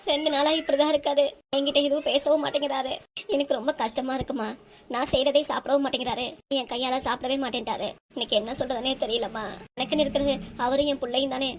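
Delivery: acted tearful complaint to parents; mildly weepy lament. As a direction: pour it out, close to crying. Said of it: "சரி அழாதடா".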